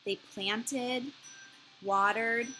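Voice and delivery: measured picture-book reading with pauses; expressive storybook narrator; story narration. A narrator's reading. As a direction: read to young children, phrase by phrase. Reads a picture book aloud.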